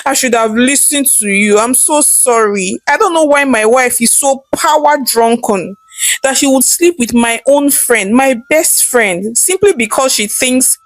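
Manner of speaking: a son mildly weeping to his mother; crying son. Acted. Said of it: "while crying and said".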